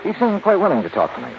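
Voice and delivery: measured narrator voice of a radio detective; hard-boiled detective narrating; story narration. A narrator's reading. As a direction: set the scene as a calm storyteller.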